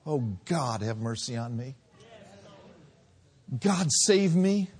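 a hint of desperate crying out to God; understated begging prayer; pleading prayer. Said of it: "And you cried out".

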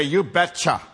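put-on a light rural Minnesota accent on you betcha; drawn-out Minnesota you betcha, a folksy local twang. Preacher imitating rural Minnesotans, light Minnesota accent. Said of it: "where they talk like this".

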